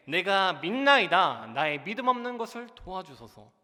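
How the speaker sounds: loud, drawn-out plea of faith; crying out. Acted. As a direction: cry it out slowly, then ease into pleading. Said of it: "그 아버지가 소리를 질러 이르되". (소리 질러 간절히 고백하듯)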